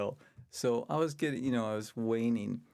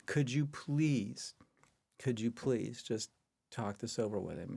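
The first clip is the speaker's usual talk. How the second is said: pleading; slower than usual. Retold or imitated. Caller begging secretary to pass a request, slow pleading. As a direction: stretch each please like a polite plea.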